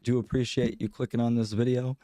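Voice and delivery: sick nasal voice. Real, not acted. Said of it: "my sick nasally voice".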